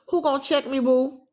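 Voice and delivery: a hint of sassy swagger; sassy slang quote. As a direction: toss it off like street slang, teasing. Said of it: "That's how they say it".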